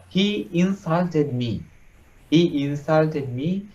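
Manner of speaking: slow, indignant complaint with a touch of anger; resentful anger. Acted. Angry prince complains of being insulted, mildly resentful. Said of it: "very angry, resentful".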